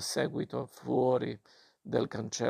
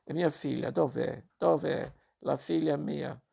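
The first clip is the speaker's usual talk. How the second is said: mother demanding her daughter, raised pitch; insist, no room for argument; peremptory demand; 3 semitones higher than usual. Acted. Mother storming in, peremptory demand for her daughter.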